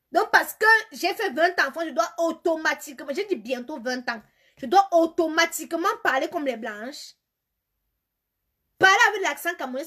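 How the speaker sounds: high, loud, hammered rant; indignant protest. Real, not acted. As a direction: argue back loudly, punching each point. Protests demand to change accent. (protestation indignée, aiguë et martelée)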